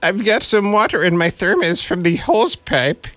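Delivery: mock Scottish accent. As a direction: fake a clumsy Scottish lilt for a laugh. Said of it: "I'm not real sure what that accent".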